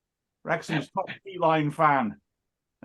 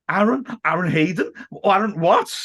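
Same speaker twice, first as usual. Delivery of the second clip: shocked disbelief; 3 semitones higher, 3 dB louder than usual. Retold or imitated. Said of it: "I was sitting there thinking".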